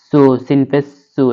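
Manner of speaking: "সু" with a whistling s; whistling seen. Shown as a demonstration. Teacher shows the safir letter, whistled s in "সু". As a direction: let the s of "সু" whistle clearly. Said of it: "শিস দিয়ে উচ্চারণ করবো".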